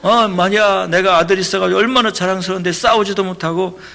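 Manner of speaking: loud, scolding father berating his son; retold angry shouting. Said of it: "막, 막 소리치는 거예요".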